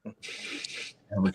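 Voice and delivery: put-on Italian-American accent, gabagoo drawn out very slowly and breathy; thick Italian accent. Friend mocking Italians saying gabagoo, slow thick Italian-American accent. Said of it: "that's a dirty accent".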